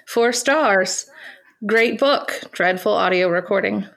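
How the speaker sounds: put-on light Irish accent reading a review. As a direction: read it with a gentle Irish lilt. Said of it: "But I will try to do an Irish accent with it".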